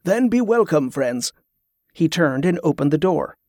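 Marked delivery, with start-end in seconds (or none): 0.0-1.3 pleased welcome. Acted. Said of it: "looked genuinely pleased".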